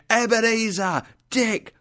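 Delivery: high, hearty summons; jolly calling out. A narrator's reading. Old employer calls in his two young workers, jolly. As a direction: call the names across a room. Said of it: "began to laugh and called".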